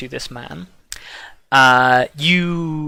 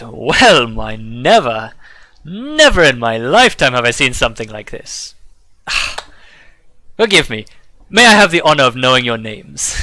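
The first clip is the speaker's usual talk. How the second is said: merchant Dagran; 4 dB louder than usual. Acted. Merchant greets the travelers, lightly voiced and courteous. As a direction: greet the travelers with a showy bow in the voice.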